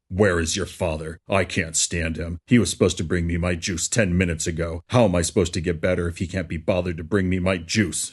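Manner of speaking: half-hearted angry scream. Acted. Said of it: "she screamed".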